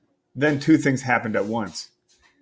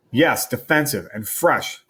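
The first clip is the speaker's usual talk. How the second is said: stern mom; slower than usual. Acted. Mom scolds Steven.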